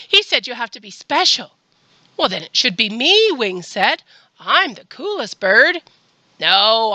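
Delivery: animated storytime reading; reading to children. A narrator's reading. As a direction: read a story to little kids, lifting the dialogue. Reads a picture book to children.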